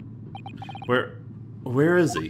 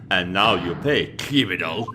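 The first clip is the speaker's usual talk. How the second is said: low menacing voice; 6 semitones lower than usual. Acted. Voicing a captor in game.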